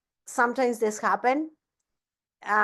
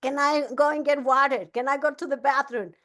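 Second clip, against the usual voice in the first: much higher, eager asking; high eager leader; 4 semitones higher than usual. Retold or imitated. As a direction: sing it up as a keen recruit. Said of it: "she just said".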